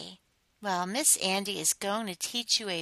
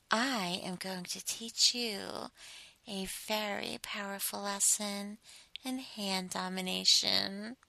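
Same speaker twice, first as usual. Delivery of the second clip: whisper; 6 dB quieter than usual. Acted. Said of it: "as I whisper".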